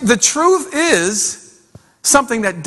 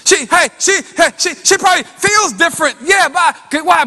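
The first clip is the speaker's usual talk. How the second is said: raised-pitch, energetic preacher delivery; preaching; 6 semitones higher than usual. Real, not acted. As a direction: preach it out to the congregation.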